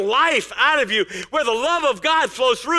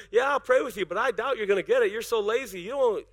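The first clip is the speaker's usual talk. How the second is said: mock doubting pastor; 3 semitones lower, 4 dB quieter than usual. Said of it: "I go".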